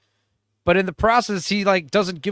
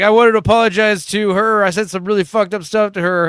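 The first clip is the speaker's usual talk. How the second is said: mock pissed brother; 3 semitones higher, 6 dB louder than usual. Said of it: "He's like".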